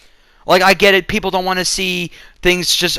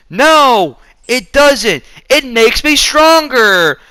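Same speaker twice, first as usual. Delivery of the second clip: higher, louder, rising to a rallying cry; hammed-up hero climax; 8 semitones higher, 5 dB louder, much slower than usual. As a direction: parody the cheesy heroic speech. Mocking the climactic hero line.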